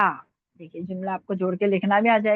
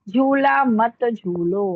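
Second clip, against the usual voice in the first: slow dictation; 5 dB louder, much slower than usual. Shown as a demonstration. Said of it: "अभी देखिए".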